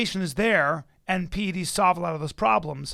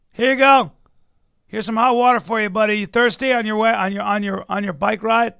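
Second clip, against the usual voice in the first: higher, louder fake-cheery race volunteer; mock friendly helper; 4 semitones higher, 8 dB louder than usual. Pretending to hand the cyclist hot water, fake cheery. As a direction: hand him the cup with sugary mock kindness.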